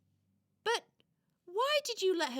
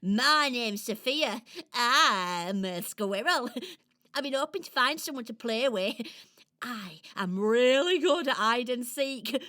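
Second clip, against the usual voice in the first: lightly voiced giggly little squirrel; a playful squirrel hoping for a playmate; Sophia the squirrel. Squirrel Sophia asks a stranger to play, bouncy and teasing.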